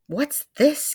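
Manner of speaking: high, loud shocked gasp. A narrator's reading. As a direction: gasp out in sudden alarm. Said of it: "gasped Mister Twit".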